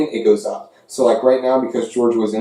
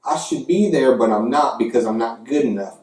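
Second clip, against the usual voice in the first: hint of a Southern hick accent ribbing rival fans; Southern redneck voice. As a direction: play a Southern SEC fan, Jim Bob Cooter, taunting UCF. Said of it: "Let's do the voice of the S E C".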